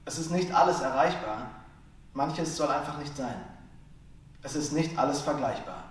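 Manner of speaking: measured lines with deliberate pauses between; poem recitation. Acted. Slam poet reads a short poem to listeners, measured recitation. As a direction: recite each line as its own statement, emphatic first half.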